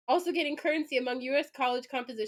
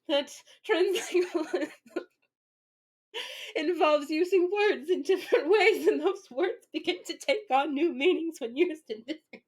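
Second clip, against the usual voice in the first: higher mock stan voice through laughter; indignant stan; 3 semitones higher than usual. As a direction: lecture like an offended fan, giggling. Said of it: "I'm the stan right now".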